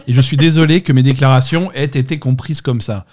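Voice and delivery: mock apology, laughing through; fake apology. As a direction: read it out while cracking up. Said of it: "c'est un peu les fausses excuses".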